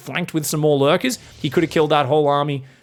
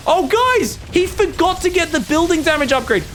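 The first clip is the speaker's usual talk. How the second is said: shocked; 12 semitones higher, 3 dB louder than usual. Real, not acted. Caster spots a blunder.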